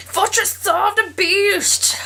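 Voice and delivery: high, slow booming announcement; dramatic announcer. Pretend. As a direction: proclaim it like a movie trailer.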